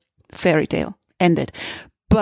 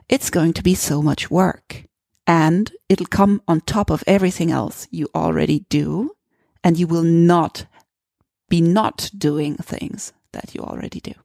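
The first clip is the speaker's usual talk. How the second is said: put-on thick German accent, read aloud. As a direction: read it like a strong German speaker. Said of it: "stronger German accent".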